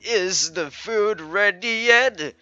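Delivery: put-on high, slow, doddery old man voice; confused old man. Old Walter mistaking a stranger for Gladys, confused and slow. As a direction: drag the words out, befuddled and questioning. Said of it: "he's an old guy".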